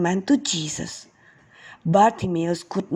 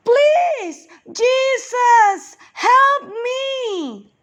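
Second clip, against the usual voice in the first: high, loud crying plea, much higher; louder desperate yell; much slower than usual. Acted. Blind beggar yells louder to Jesus, begging for help. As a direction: shout it as if he may never get another chance. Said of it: "Bartimaeus yelled louder".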